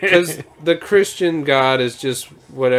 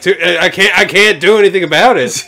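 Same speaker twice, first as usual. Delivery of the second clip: laughing God voice; 4 semitones higher, 7 dB louder than usual. Retold or imitated.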